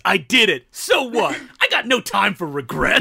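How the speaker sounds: lightly voiced movie villain; hint of a defiant bad-guy dad. Villain dad confessing to his son Charlie, lightly acted villain. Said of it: "his dad villain goes".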